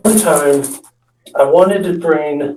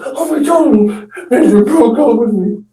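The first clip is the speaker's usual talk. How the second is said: mock crying girl; 8 semitones higher than usual. Imitating Amanda crying over her breakup. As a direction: whine it like a heartbroken friend. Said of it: "she says".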